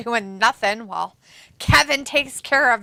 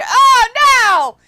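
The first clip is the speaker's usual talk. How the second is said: high loud gasp of alarm; shocked "oh, no!"; shocked cry; 11 semitones higher, 10 dB louder than usual. Real, not acted. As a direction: gasp as he dives off. Reacting to a big dive.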